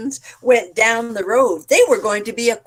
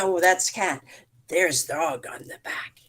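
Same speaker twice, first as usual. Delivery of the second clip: whispered aside; 4 semitones lower, 5 dB quieter than usual. Real, not acted. Aside correcting herself.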